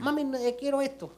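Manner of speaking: put-on high, whiny kid begging mom; whining child. Pastor mimicking a child nagging mom for cereal, whiny high voice. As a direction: beg like a pestering little kid.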